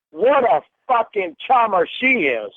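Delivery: loud, bitter sarcasm; sarcastic. Real, not acted. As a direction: sneer the praise loudly. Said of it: "A what?".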